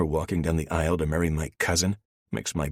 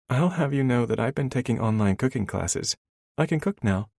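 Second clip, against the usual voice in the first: put-on higher, indignant young woman; female character voice; 8 semitones higher, 3 dB louder than usual. A narrator's reading. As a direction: defend yourself as the heroine. Elena defending herself.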